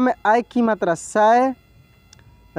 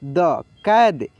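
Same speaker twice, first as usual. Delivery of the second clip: slow syllable reading; 5 semitones lower, much slower than usual. Shown as a demonstration. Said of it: "क में आय की मात्रा कै".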